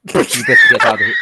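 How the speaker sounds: high, loud mock-Welsh shout; bad Welsh accent. Pub brawler ordering a stranger out, bad Welsh accent. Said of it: "Where the fuck was he from?".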